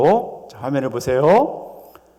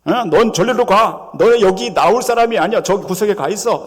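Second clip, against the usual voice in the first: scolding crowd; 2 semitones higher than usual. Acted. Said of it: "꾸짖습니다".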